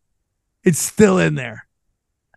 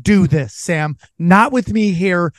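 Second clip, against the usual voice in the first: mock mom scolding. Mom scolding Sam at the reunion, mild mock stern. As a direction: scold like a tired mom, lightly. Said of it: "She's like, Stop it".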